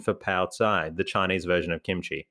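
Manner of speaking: stiff robotic reading voice. Shown as a demonstration. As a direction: read it out like a robot. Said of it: "why I'm reading like a robot".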